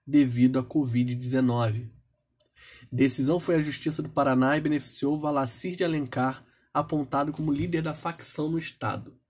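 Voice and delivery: reading out a headline and report; measured reading of a written news report; news read-aloud. Real, not acted. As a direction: read the news item out, pitched slightly up. Reads a news item aloud.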